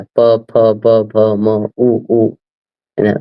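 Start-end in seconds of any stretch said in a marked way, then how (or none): 0.0-1.7 प फ ब भ म sounded one by one, lips touching; lip letters demo. Shown as a demonstration. Teacher repeating the lip letters for the student. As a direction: press the lips on each letter. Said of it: "ओठ हमेशा touch होता है".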